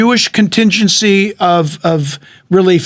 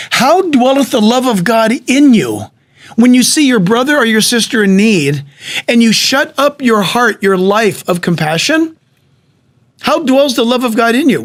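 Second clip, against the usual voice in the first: raised, forceful scriptural challenge; preaching; 3 semitones higher than usual. Acted. Preacher exhorting the church with scripture, forceful and raised. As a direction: press the question home like a preacher.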